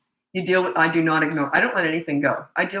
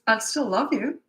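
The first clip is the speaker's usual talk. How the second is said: higher, gently lilting reassurance; sincere, not passive-aggressive; 4 semitones higher than usual. Shown as a demonstration. Parent to child after the rule, sincere reassurance. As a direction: say it lovingly, with no edge. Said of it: "it's not passive aggressive even".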